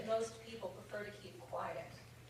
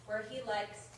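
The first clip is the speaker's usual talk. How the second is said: put-on British accent; 4 dB louder than usual. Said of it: "the accent that is about to ensue".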